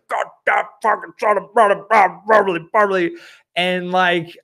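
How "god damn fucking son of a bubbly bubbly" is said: higher, sputtering mock rage of a fuming father; furious dad. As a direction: imitate dad losing it, swallowing the curse. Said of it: "My dad was furious".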